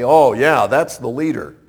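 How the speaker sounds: assured approval, falling at the end; confident recognition. Acted. Onlookers spotting an obvious leader, confident recognition. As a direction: point out the obvious leader with certainty. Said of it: "look at and say".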